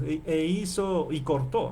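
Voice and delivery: slow, word-by-word literal rendering; literal reading. Shown as a demonstration. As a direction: spell out the literal translation slowly. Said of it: "aquí literalmente diríamos".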